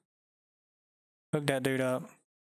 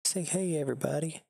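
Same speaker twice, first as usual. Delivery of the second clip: dog's voice; 4 semitones higher than usual. Pretend. Voicing for the dog.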